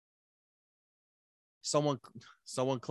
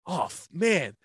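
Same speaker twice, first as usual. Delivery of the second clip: mock dismay; 6 semitones higher than usual. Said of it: "And he goes".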